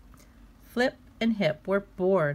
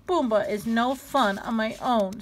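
sniffling; 4 semitones higher than usual. Acted. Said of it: "sniffled Flop".

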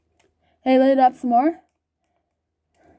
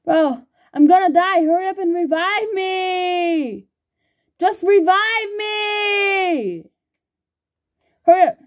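panicking gamer; 3 semitones higher, slower than usual. Real, not acted. About to die in game.

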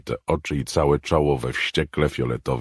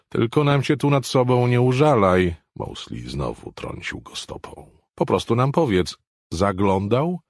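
a lightly voiced, higher, louder impatient demand; impatient Mosley; 11 semitones higher, 5 dB louder than usual. Mosley nudging the man with his foot, lightly voiced impatience. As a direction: press him for an answer.

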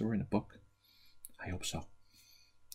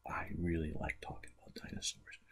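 whisper; 5 dB quieter than usual. Acted. Host whispers an aside.

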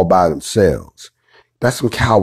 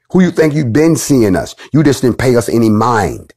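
angry raised voice; 4 semitones higher than usual. Real, not acted. Host on his show shouting at Klan members, furious. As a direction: call them out, fired up.

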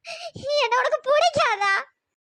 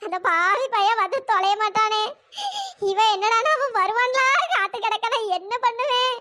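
tearful lament. Acted.

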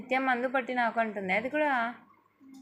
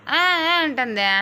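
mock doll crying; 2 semitones higher, 7 dB louder than usual. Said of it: "ఎట్లా ఏడుస్తుంది చెప్పు ఒకసారి".

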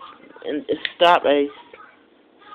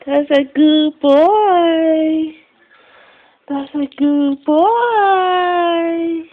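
slow, higher sing-song praise; cooing praise; 5 semitones higher, much slower than usual. Real, not acted. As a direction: coo it slowly to the puppy. Praising the dog.

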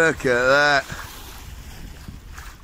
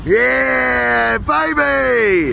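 excited cheer; 3 semitones higher, much slower than usual. Real, not acted.

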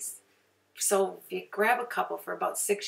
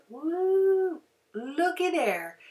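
pet bird voice; 9 semitones higher, much slower than usual. Acted. Bird voice from before again.

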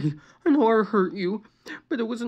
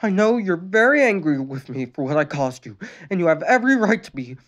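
high, louder tearful apology; tearful pleading; 8 semitones higher, 4 dB louder than usual. A narrator's reading. Sister apologizing to her brother, tearful. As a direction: plead through tears. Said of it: "Luann pleaded tearfully".

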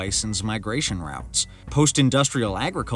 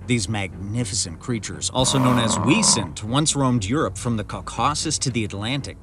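calm, measured documentary narration; nature documentary; 3 dB louder than usual. A narrator's reading. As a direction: narrate like a wildlife film.

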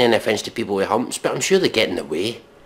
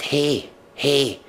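mock girl voice; much slower than usual. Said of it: "She said".

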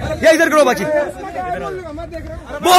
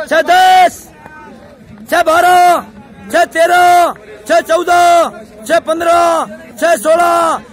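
shouted time calls; 3 semitones higher, much slower than usual. Real, not acted. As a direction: call each time out with a stretched ending. Coach calls out times. (ऊँची आवाज़ में समय की पुकार)

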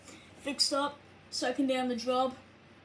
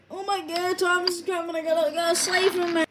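higher, urgent, building in volume; acted alarm; 3 semitones higher, 5 dB louder, faster than usual. Engine panicking to save Thomas, urgent and raised. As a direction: rush in to save a friend, voice raised.

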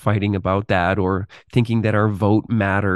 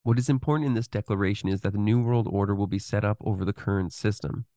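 softer, steady reading of a written exposé; read-aloud narration; 5 dB quieter than usual. Acted. Reads on, at lower level.

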